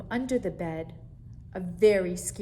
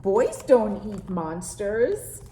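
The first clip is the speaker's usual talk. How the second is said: put-on amused boy; 9 dB louder, slower than usual. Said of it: "he asked".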